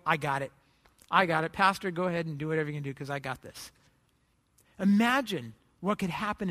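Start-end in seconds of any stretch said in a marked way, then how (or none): 0.1-3.7 low, steady offer to take over; calm reassurance. Acted. Congregant tells the pastor they'll help, low and calm. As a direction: drop the pitch and calmly take charge.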